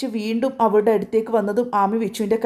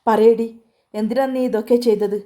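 louder, furious demand; yelling; 3 dB louder than usual. Acted. Vichu to sister, dragging her by the hair, yelling. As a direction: yell പറയടി, then press the question. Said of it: "അവൻ അലറിക്കൊണ്ട് ചോദിച്ചു".

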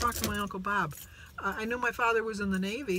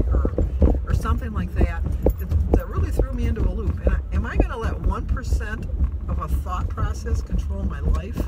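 intense worry; 9 dB louder than usual. Real, not acted. Anguished over possible surgery.

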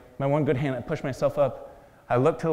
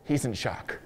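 mock whisper; 6 dB quieter, slower than usual. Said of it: "I hear him whisper to his partner".

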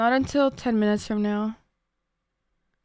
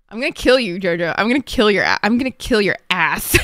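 mock threat; 5 dB louder than usual. Mock threat to friend Jojo.

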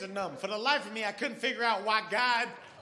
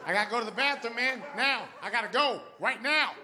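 raised, urgent begging for the bathroom; urgent plea; 3 semitones higher than usual. Retold or imitated. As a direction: press him, it can't wait.

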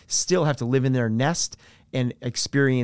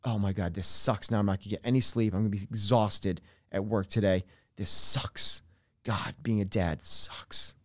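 softer, grumbling complaint, trailing into a whisper; whiny pessimist; 4 semitones lower, 5 dB quieter than usual. Retold or imitated. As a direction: moan about the lost sleep. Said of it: "what the pessimist says".

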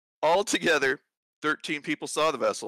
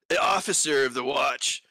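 lightly voiced laid-back bro; gym bro. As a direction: read it like a chill dude. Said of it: "Then do it in a bro voice".

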